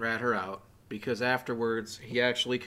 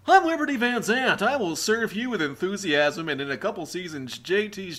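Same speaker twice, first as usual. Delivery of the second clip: loud, high, slow mock-peppy speech; mocking a character's eager speech; over-the-top enthusiasm; 7 semitones higher, 10 dB louder than usual. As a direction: parody a peppy campaign speech. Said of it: "Liberty has enthusiasm".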